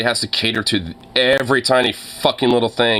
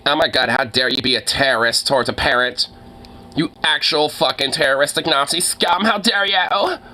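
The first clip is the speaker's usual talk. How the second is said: rising higher into a shrill, indignant mock parent; mocking a parent's outrage at a streamer, climbing higher; 5 semitones higher than usual. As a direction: ham up a scandalized parent clutching pearls.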